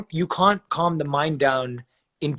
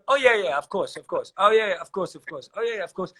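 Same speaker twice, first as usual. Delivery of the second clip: brushing off praise, each phrase starting high and dropping away; offhand, tossed-off agreement; mock dismissive; 4 semitones higher than usual. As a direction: imitate someone waving away a compliment. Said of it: "we just ignore them".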